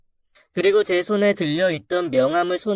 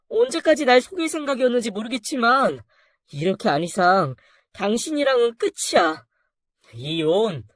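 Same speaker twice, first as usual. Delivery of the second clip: incredulous angry wife; 4 semitones higher than usual. Acted. Wife declares divorce.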